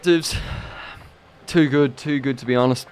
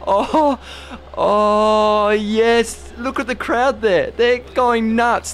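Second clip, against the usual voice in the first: excited awe; 5 semitones higher, slower than usual. Real, not acted. Awestruck after sixth goal.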